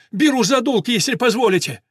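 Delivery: loud, high, pressing claim; excited shout. A narrator's reading. Jockey claiming the mare against the Englishman, excited shout. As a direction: insist before anyone can outbid. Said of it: "закричал он".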